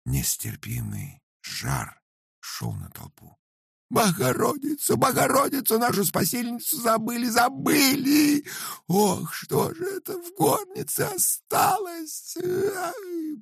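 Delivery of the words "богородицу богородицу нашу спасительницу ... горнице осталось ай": very high crying wail. A narrator's reading. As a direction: sob out the loss of the icon. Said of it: "плакала старуха".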